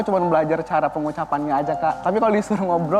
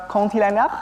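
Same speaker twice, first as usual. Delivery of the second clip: French accent; 4 semitones higher than usual. Shown as a demonstration. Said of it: "kalau bahasa Perancisnya".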